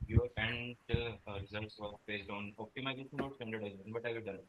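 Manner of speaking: very faint voice, far from the mic; almost inaudible, quiet and distant; barely audible. Real, not acted. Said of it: "your voice is very low".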